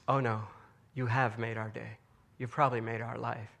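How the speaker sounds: low, soft and tender retold reply; gently reassure, voicing a grateful woman quietly; heartfelt reassurance.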